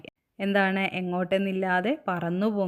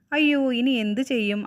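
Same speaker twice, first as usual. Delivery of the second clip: higher, mildly alarmed cry; dismayed; 5 semitones higher, 4 dB louder than usual. Acted. Lost kite wondering what to do, dismayed. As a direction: exclaim in worry with a lifted voice.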